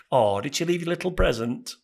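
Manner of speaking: lightly mocking soppy coo; cooing animal lovers. Animal lover excusing a cat's mess, lightly mocked cooing. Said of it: "animal lovers say things like".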